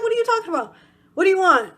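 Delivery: high, loud exasperated demand; retold irritation. Turning on the whispering man, loudly irritated. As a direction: raise pitch and volume, fed up. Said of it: "I got mad and irritated".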